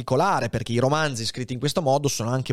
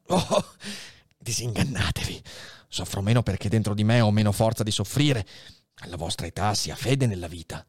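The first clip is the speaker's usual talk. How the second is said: dying abbé's last words. Acted. Dying Faria says his last words to Edmond, fading. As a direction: let the life drain from each line.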